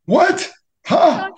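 put-on high, loud creaky old geezer; very old man. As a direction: crank the pitch way up like a grandpa. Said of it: "Your old man voice".

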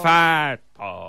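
said through a yawn. Real, not acted. Co-host echoing the host's race names through a yawn. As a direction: yawn while saying "Fat Dog". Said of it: "I yawned as I said it".

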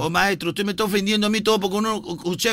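a lightly voiced indignant cabbie; offended taxi driver. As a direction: play the driver taking offence. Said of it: "Yo voy a actuar como el bruto".

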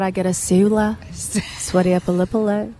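a hint of Australian accent, casual; Aussie slang impression. Singer showing off Aussie slang in a light Australian accent. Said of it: "What else can you do?".

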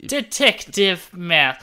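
slow, drawn-out sultry purr. Acted. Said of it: "you've never sounded more".

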